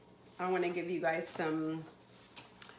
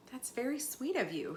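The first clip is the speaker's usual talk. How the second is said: gentle, higher-pitched thanks; mildly softened storybook voice; softly; 5 semitones higher, 6 dB quieter, faster than usual. A narrator's reading. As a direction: thank a child tenderly, without pushing. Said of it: "she said softly".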